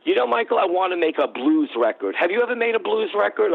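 a hint of a Queens New York accent; a singer's Queens accent. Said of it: "in that Queen's, uh, accent that she has".

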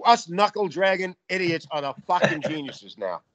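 cracking up while gloating, voice jumping high; laughing. Real, not acted. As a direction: laugh through it, delighted with the joke. Gloating joke, both laughing.

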